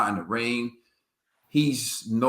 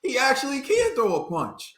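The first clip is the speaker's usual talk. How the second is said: hushed gasp of disbelief rising into a high mock-amazed line; mock shock; 9 semitones higher, 3 dB quieter than usual. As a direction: imitate a stunned opponent, high-pitched. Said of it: "Sean was shocked".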